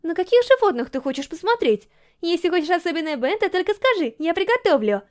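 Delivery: put-on eager girl gushing about the zoo trip; Yurika's voice. A narrator's reading. Yurika showering questions.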